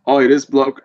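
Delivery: put-on slurred Australian bloke accent, half-committed; a tipsy Australian accent, quickly abandoned; drunk Aussie accent. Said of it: "my best intoxicated Aussie accent".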